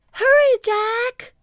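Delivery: high, loud, stretched call; urgent cry. A narrator's reading. Annie calling Jack from the ladder, crying out. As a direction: holler to hurry them up. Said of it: "cried Annie".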